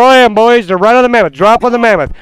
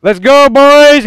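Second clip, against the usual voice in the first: rallying shout; 5 semitones higher, 4 dB louder, much slower than usual. Real, not acted. Rallying the team.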